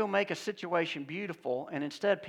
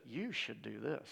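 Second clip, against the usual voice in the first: whispered devil suggestion; 6 semitones lower, 11 dB quieter than usual. Acted. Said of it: "He never comes in and says".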